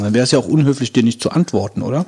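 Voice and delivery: chewing while talking; mouth full. Real, not acted. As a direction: speak through a mouthful of cookie. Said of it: "muss ich ja gerade mit vollem Mund sprechen".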